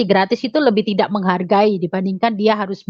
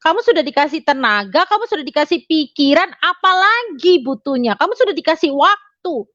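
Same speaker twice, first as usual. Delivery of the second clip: voice of God; 5 semitones higher than usual. Retold or imitated. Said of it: "Padahal Tuhan bilang".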